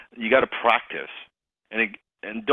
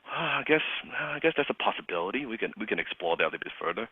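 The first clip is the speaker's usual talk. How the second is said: soft, sighing half-agreement; reluctant; 7 dB quieter, faster than usual. Retold or imitated. Closer grudgingly considering the prospect's idea, reluctant. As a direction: concede quietly, still unconvinced. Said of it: "I was sighing like crazy".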